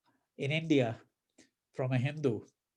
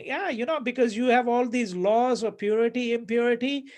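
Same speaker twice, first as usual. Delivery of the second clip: scornful sing-song, higher pitched; mocking; 4 semitones higher than usual. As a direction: tease him about his purity rules. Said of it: "So he's mocking him".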